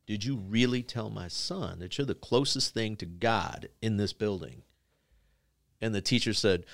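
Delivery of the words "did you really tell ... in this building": deliberate confrontation. Retold or imitated. Dad repeats question, demanding answer.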